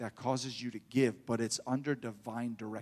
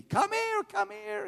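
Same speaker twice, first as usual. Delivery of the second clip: calling out; slower than usual. Retold or imitated. Preacher calling the lady back to the car. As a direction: shout after her to come back. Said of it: "I scream out after this lady".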